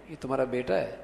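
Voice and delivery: low, soft inquiry on یہ تمہارا بیٹا ہے; question tone. Shown as a demonstration. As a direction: ask یہ تمہارا بیٹا ہے softly, pitched low. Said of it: "یہ سوالیہ انداز ہے".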